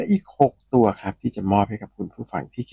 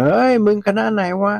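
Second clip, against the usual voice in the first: imitated drunken shout; 11 semitones higher than usual. Drunk freshman hollering at a passer-by, mock shout. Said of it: "เด็กรุ่นน้องที่เมาแอก็เลยตะโกนถามว่า".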